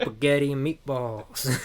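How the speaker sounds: slow "spaghetti" with no opening S; dropped S. Retold or imitated. Co-host joins the T.I. joke, "spaghetti" missing its first S. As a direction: draw it out, saying "spaghetti" as "'ghetti". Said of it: "he will not pronounce the S".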